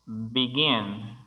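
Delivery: "begin" with the weight on GIN; stress on last syllable. Shown as a demonstration. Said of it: "la última es la que tiene el énfasis".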